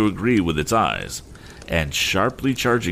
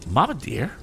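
put-on a little girl's lisp, pitched higher; 8 semitones higher than usual. A narrator's reading. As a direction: plead gently as a small lisping child. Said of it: "lisped the little girl".

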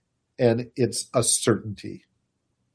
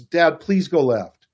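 put-on pleading child; 6 semitones higher, 4 dB louder, slower than usual.

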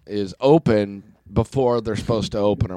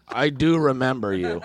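understated displeasure, retelling her reply; not happy; 3 dB quieter than usual. Retold or imitated. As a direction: admit it unhappily, only lightly acted. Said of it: "Like, not happy".

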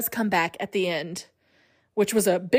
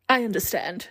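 a hint of the movie boy's odd voice; understated take on a weird film voice; lightly imitated weird voice. Boy speaking to his stuck horse, lightly imitated weird voice. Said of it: "He says it in the weirdest voice".

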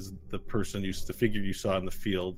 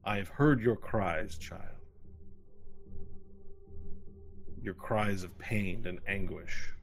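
booming archangel voice; 4 dB louder, slower than usual. Acted. Priestess speaks to supplicant.

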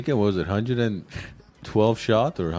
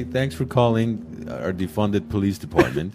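phone menu voice; slower than usual. Pretend. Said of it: "just say".

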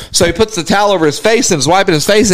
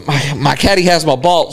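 lightly imitated Australian accent, lower voice; 5 semitones lower than usual. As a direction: put on a loose Australian accent. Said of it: "got that thick Australian accent".

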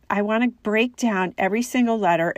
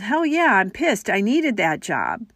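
put-on angry child; 3 dB louder than usual. Child angry at losing job.

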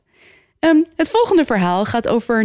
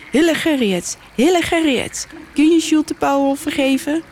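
high calling across the water, not much louder; 8 semitones higher than usual. A narrator's reading. Jinne calls to the spirit in the stream, high calling voice. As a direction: call out over the water, pitched high. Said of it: "zegt met luide stem".

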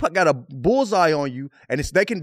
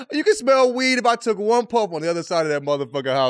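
laughing. Real, not acted. Laughing while telling story.

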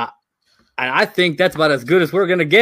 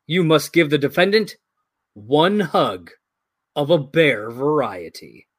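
judge voice. Acted. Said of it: "Judge's robes".

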